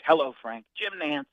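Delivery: a hint of a smooth, hushed announcer; lightly voiced Nantz greeting; Jim Nantz. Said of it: "Nantz called me".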